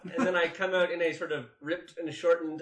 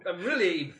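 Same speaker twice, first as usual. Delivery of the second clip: haughty elf lady; 3 dB louder than usual. Acted. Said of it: "this is a haughty female".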